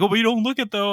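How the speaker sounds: imitating the girl. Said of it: "She's like".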